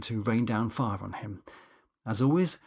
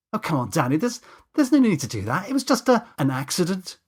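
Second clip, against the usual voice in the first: pleading; 6 semitones higher, 5 dB louder than usual. Acted. James pleading with angry Danny.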